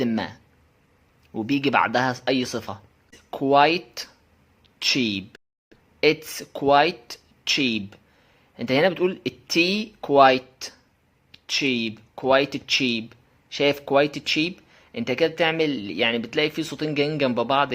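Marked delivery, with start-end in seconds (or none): 3.4-8.0 careful word-by-word QUITE, then CHEAP; both sounds separately. Shown as a demonstration. Teacher showing learners the unlinked form, QUITE and CHEAP pronounced separately. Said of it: "أنت تلاقي بتنطق الصوتين". 11.5-14.5 QUITE with a released T before CHEAP; choppy, unlinked. Shown as a demonstration. Teacher showing the choppy form, QUITE CHEAP with both sounds. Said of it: "تحس ان في تقطيع في الكلام".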